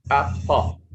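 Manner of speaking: "apple" split in two, schwa ending isolated; syllable by syllable. Shown as a demonstration. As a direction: break "apple" apart to show its second syllable. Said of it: "it's a sound".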